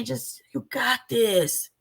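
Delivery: slow breathy whisper of mock comfort; mock soothing whisper. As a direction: whisper it like a sweet angel. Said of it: "the little angelic lady".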